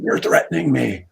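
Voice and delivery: lightly acted scared protest; mock scared kid. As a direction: imitate a rattled youngster protesting. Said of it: "kinda scared young kid".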